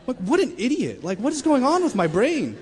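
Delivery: half-laughing self-scolding outburst; exasperated at myself. Real, not acted. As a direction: cry out at your own stupidity. Exasperated at own stupidity.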